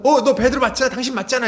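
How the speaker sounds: high-pitched, insistent mock accusation; pursuing servant girl. Servant girl chases fleeing Peter, imitated insistent accusing. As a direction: pester him as you chase after him. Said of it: "여자 아이가 이제 막 쫓아오면서".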